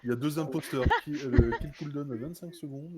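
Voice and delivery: talking through laughter; giggling while explaining; laughing. Real, not acted. Laughing at two imposters question.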